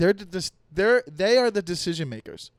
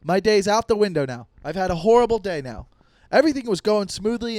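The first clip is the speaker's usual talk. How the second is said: mock upset rant; 3 semitones higher, 6 dB louder than usual. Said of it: "And you're like".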